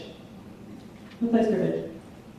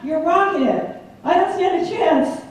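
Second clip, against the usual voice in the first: cheering on; 7 semitones higher than usual. Retold or imitated.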